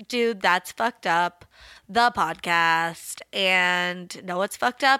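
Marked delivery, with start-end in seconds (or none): 0.1-3.2 announcer voice. Acted. Announcing podcast title.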